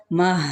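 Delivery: مہ as a short clipped syllable; short mah sound. Shown as a demonstration. Teacher isolating the sound for students, quick syllable. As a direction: give just a quick مہ. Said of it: "یہ والی sound آئے".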